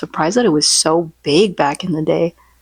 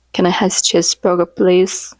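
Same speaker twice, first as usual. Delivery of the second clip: cute meme voice. Retold or imitated. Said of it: "another Roblox meme".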